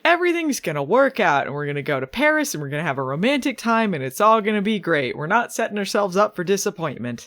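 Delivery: gushing mock optimism; hammed-up lovey-dovey assurance; schmaltzy. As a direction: lay on the schmaltz, quick and breezy. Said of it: "being really schmaltzy about it".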